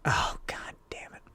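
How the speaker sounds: hushed, breathy whispered curse. Retold or imitated. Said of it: "and she's like".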